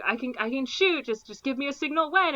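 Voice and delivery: a pushy cop itching to fire; eager cop. Retold or imitated. Ben Stiller eager to shoot.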